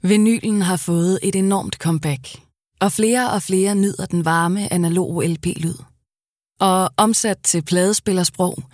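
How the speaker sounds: smooth, measured commercial read. Acted. Voice actor reading a vinyl ad, smooth and measured. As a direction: make the analogue sound inviting.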